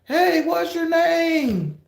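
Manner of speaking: high, slow cartoon dog voice; drawn-out high dog voice from a TikTok skit. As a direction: squeak it out like a silly skit dog. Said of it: "that little TikTok skit where they have two dogs".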